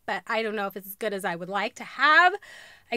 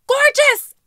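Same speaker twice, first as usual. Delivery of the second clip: much higher, louder cry of joy; laughing shout; 14 semitones higher, 11 dB louder than usual. Real, not acted. Gushing to viewers about heels, laughing shout. Thrilled by the shoes.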